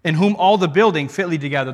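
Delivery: rattled off fast, "in whom all the building fitly together" run together; brisk reread of the verse; quick recap. Shown as a demonstration. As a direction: race through the verse a second time as a reminder. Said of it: "Those three".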